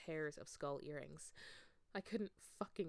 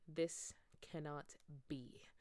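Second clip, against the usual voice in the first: slow, softer, clipped denial; crisp; 3 semitones lower, 5 dB quieter, slower than usual. Acted. Snape denying it, slow and crisp. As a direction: say it precisely, unmoved. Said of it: "in a crisp voice".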